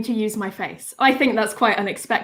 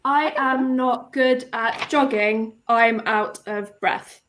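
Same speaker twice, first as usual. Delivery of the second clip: slow and a bit softer, every word counted; slow, deliberate recount; 4 dB quieter, much slower than usual. Shown as a demonstration. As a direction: spell it out slowly so the words can be counted. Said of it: "say that again".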